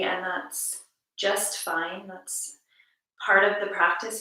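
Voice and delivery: calm, measured meditation voice with long pauses; guided meditation. Acted. Teacher guiding listeners to notice each breath, calm guided meditation. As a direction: lead listeners gently through the breath, unhurried.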